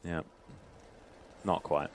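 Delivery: slow, soft put-on character voice; Fat Controller. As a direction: draw it out softly as a children's show character. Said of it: "your Fat Controller voice".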